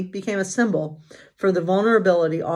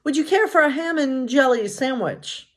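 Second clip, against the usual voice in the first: higher, eager dwarf voice; Doc; 6 semitones higher than usual. Acted. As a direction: offer it like a proud little dwarf. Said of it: "Doc offered".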